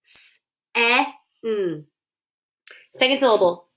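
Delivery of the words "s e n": "S-e-n" letter sounds split; sounding out "S-e-n"; tapped sounds. Shown as a demonstration. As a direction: tap out "S-e-n". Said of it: "Tap it".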